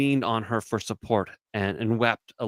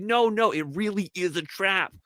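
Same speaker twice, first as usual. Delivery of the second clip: mock men replying; 8 semitones higher than usual. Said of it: "We're like".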